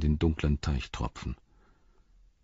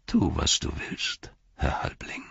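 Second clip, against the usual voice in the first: Denethor, cold and bitter; 2 semitones lower, 4 dB quieter than usual. Acted. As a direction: send the boy away with bitter calm. Denethor's weary reply.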